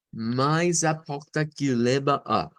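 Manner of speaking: slow Brazilian Portuguese reading. Shown as a demonstration. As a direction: read it slowly with a Brazilian accent. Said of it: "Esa es la parte que llevamos". (lectura lenta con acento brasileño)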